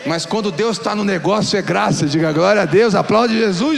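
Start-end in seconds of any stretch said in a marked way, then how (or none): 2.0-3.8 rousing call. Acted. Pastor urging congregation.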